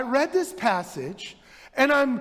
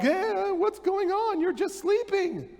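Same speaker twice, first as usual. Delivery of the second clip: panicked disciples; 8 semitones higher than usual. Retold or imitated. Disciples waking sleeping Jesus.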